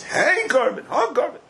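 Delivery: "Hey korban, ha korban" each as two words, high. Shown as a demonstration. Teacher demonstrates both forms to the class as two words. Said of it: "Two words".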